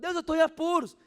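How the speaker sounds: very loud, high shout to God; husband shouting to God in despair; desperate shout. Retold or imitated. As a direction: yell it up at heaven. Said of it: "Gritava, gritava, gritava".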